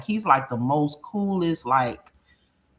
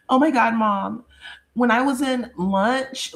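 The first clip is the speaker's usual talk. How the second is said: put-on higher, drawn-out whiny teen voice; mock daughter; 7 semitones higher than usual. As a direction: act out the daughter starting her story, slowly. Mimicking daughter's complaint.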